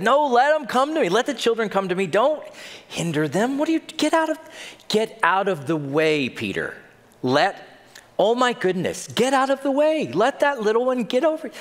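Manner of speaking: high, pressing plea to let them through; insistent Jesus. Retold or imitated. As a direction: push the disciples aside, eager. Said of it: "Jesus called them and said".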